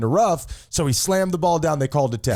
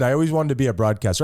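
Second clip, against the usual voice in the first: radio voice; 3 semitones lower, faster than usual. Shown as a demonstration. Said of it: "let me try my radio voice".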